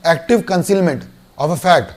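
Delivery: very slow, each word spaced out; slow term dictation. Shown as a demonstration. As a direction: spell out "active concealment of a fact" word by word for notes. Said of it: "दो word पे ध्यान दें". ("active concealment of a fact" धीरे-धीरे, हर शब्द अलग बोलें)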